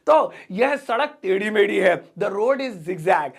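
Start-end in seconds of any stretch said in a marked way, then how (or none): 2.2-3.3 very slow, word by word; slow model sentence. Shown as a demonstration. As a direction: dictate it slowly for learners. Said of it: "slow model sentence".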